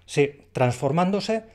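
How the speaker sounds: "transformándose" said slowly and clearly; "transformándose" dicho despacio; slowed down. Shown as a demonstration. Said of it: "tiene dos dificultades".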